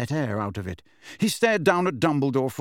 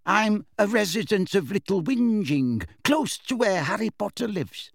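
high, wavering witness; nervous, higher-pitched neighbour; Mrs Figg, quavery; 8 semitones higher than usual. Acted. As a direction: answer the court in a quavering voice.

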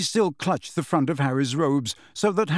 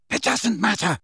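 man's voice; 7 semitones higher than usual. A narrator's reading. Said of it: "said a man's voice".

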